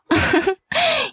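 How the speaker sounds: high, derisive little laugh; mocking giggle. A narrator's reading. Sister-in-law laughs at the angry mother, mocking giggle. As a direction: giggle at the complaint. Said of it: "동서는 끝까지 깔깔 웃어댔어요".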